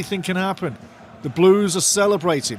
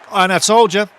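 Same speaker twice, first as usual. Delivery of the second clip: excited told-you-so; 3 semitones higher, 7 dB louder than usual. Real, not acted. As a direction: crow about being right, loudly. Gloating after correct prediction.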